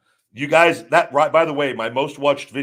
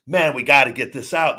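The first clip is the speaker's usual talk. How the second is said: firm, pushy urging, a bit louder; aggressive; 5 semitones higher, 7 dB louder than usual. Retold or imitated. Retelling his aggressive call to the company, with firm, raised urgency. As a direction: push hard to get the order moving. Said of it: "more of an aggressive".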